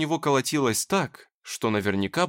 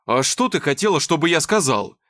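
louder exasperated exclamation; exasperated man exclaiming; 3 semitones higher, 6 dB louder than usual. Acted. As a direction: throw the question back at her. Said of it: "воскликнул Никита".

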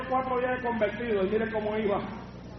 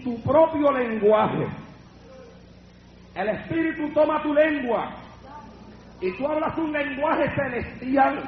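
slow, solemn explanation; 5 semitones higher, much slower than usual. Retold or imitated. Brother explaining tongues to a new convert, slow and solemn.

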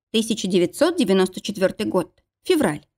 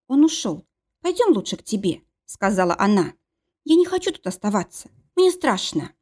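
frightened. Acted. Frightened Mila.

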